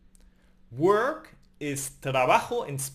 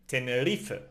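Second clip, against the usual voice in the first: "Tenerife" in Spanish, stressed on the -ri-; stress on penultimate syllable; 4 semitones lower than usual. Shown as a demonstration. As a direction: lean on ri in "Tenerife", let -fe fall. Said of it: "Where do you stress the Spanish word for Tenerife?".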